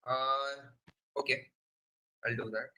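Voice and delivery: faint voice on a weak headset mic; very soft, barely heard; barely audible. Real, not acted. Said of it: "Your voice is very faint here".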